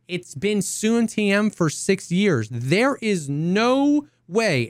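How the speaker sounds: slow, drawn-out scoffing; mock certainty. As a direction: scoff it out slowly. Mocking chatter doubting release.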